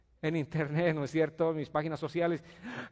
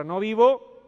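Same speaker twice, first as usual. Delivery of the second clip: "No vivo" called out even louder and higher; louder on request; 6 semitones higher, 13 dB louder, slower than usual. Shown as a demonstration. Preacher demanding a louder "No vivo", loud and high. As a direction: shout "No vivo" back, stronger. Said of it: "A ver, más fuerte esa palabra".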